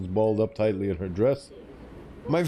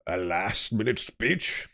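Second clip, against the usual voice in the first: incredulous scorn; much slower than usual. Acted. Ben scolds Olivia for failing.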